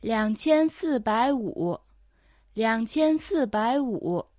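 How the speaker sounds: dictating. Shown as a demonstration. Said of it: "頑張ってそれを聞き取ってください".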